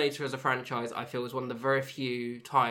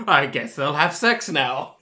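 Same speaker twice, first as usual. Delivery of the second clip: The Room impression; 9 dB louder, slower than usual. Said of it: "I feel like I'm watching The Room".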